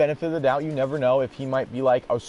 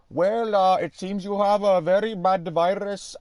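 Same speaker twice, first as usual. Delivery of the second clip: higher, slow put-on agent voice; sales pitch agent; 4 semitones higher than usual. Agent pitching the paid repair, slow put-on voice. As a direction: sell the repair like an ad. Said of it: "He was like".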